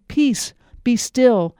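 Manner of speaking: slow, steady Peace, be still; slow, calm command to the wind. Acted. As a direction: hush the storm slowly and firmly. Jesus calms the storm.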